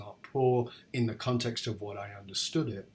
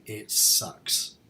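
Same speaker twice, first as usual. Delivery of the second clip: whispered; 2 semitones lower than usual. Shown as a demonstration. Demonstrating what people need to say, whispered. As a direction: whisper "It sucks." under the breath. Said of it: "what we simply need is a safe space to say".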